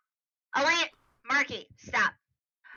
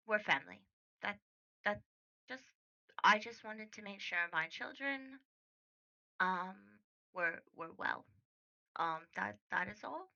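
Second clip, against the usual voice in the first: curt mother; 3 semitones lower, 5 dB quieter than usual. Acted. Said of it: "tilts her head a little curtly".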